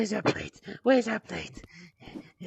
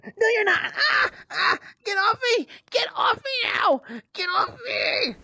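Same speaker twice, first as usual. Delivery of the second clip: struggling cries; 4 semitones higher than usual. Acted. Physical struggle, crying out.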